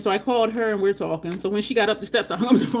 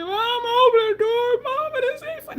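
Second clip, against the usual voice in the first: mock crying; 4 dB louder than usual. Hyped-up boy begging mama to open the door, mock crying. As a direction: imitate a hysterical little boy sobbing the words. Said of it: "he's crying like".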